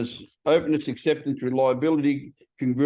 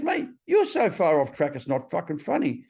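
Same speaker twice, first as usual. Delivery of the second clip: emphatic telling-off; 8 semitones higher than usual. Retold or imitated. Sponsor telling him he's in the wrong, emphatic scolding. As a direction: imitate a sponsor setting him straight, stretching the key words.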